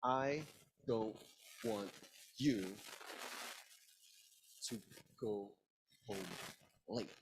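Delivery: every word cut apart by pauses; hard, separated beats on each word; chopped emphasis. Shown as a demonstration. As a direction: chop it word by word: "I... don't... want... you...". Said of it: "We can use emphasis with our voice combined with the chopping motion".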